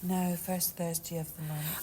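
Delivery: breathy whispered correction, no voice. Real, not acted. Teasing correction aside.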